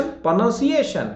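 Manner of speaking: प्रोनंसिएशन said slowly as "pro-nun-see-ay-shun"; correct pronunciation. Shown as a demonstration.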